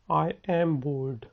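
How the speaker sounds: very slow, each word spelled out for learners; slow it right down so students can copy; slow model sentence. Shown as a demonstration. Teacher slowly modelling a question for students to repeat. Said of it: "मेरे साथ repeat करें".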